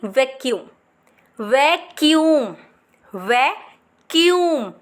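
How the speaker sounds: वैक्यूम drawn out slowly; slow model word. Shown as a demonstration. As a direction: say it slowly for them to copy. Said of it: "जैसे मैंने बोला है". (धीरे से model करो)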